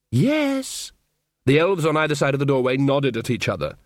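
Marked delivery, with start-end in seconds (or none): 0.1-0.9 slow, sneering elf voice; mocking elf. Elf taunting Magrat in the dark, slow and sneering. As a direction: taunt her lazily, savouring it.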